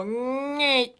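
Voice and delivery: "nay" pinched and pushed high in the throat; a tight, blocked "nay"; wrong squeezed nay. Shown as a demonstration. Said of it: "you're squeezing in here and you're blocking your air".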